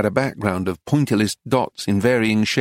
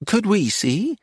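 higher hopeful woman; high eager tourist; 9 semitones higher, slower than usual. A narrator's reading. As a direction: ask eagerly. American woman asking.

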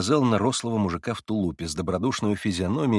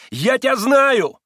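even higher, slow, loud stubborn cry; irritated exclamation, repeated; 12 semitones higher, 8 dB louder, slower than usual. Acted. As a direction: insist on it like a fool. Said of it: "восклицал он раздражённо".

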